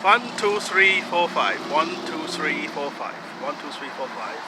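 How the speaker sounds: trying out a put-on German accent. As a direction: count up to find the German accent. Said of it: "courage to do a German accent".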